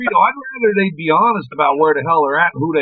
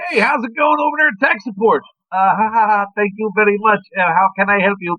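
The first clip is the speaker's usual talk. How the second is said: playing dumb with a tech support agent; mock tech support caller; 5 semitones higher than usual. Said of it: "I like fucking with 'em".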